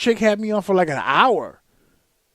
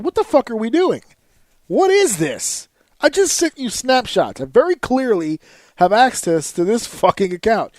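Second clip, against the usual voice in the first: retold angry tirade, pitched up; losing his shit; 6 semitones higher, 3 dB louder than usual. Customer to support agent after snapshots were sent, losing his shit. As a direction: re-enact a fed-up customer's high, heated protest. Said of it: "I lost my shit".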